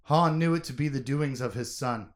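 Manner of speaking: steady audiobook reading; story narration. A narrator's reading. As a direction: read the scene like an audiobook. Reads a novel scene aloud.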